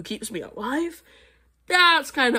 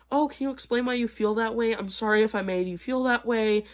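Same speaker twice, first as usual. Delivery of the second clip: mock apologetic; 3 semitones higher than usual. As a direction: pretend to apologize oh so sweetly. Mock apologetic reply she refuses to give.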